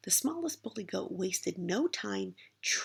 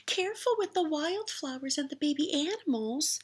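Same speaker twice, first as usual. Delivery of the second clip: timid ogre; 8 semitones higher than usual. A narrator's reading. Ogre's worried plea.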